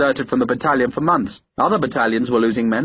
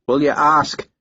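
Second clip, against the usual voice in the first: a mild stubborn push on "ask"; "will you ask?" pressed again, firm and unyielding; 3 semitones higher, slower than usual. A narrator's reading. Harper insisting Sharp ask for him, stubborn. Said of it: "Harper's voice was stubborn".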